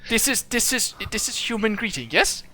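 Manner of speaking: high, questioning machine voice; curious robot. Acted. Warforged checking whether its handshake is right, high robotic voice. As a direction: check the custom like an earnest robot.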